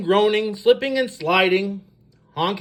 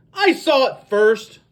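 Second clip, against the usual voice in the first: insistent claim; 3 semitones higher, 4 dB louder than usual. Acted. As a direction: stake your claim loudly. Quarrel over who found egg.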